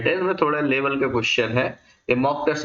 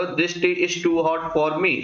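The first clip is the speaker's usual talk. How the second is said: reads the sentence out very slowly, word by word; slow dictation of the example sentence; very slow reading; 4 semitones higher, much slower than usual. Shown as a demonstration. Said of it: "sir, ये question है".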